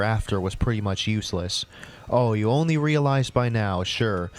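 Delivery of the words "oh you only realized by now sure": sarcastic. Acted. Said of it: "what was the freaking thought process".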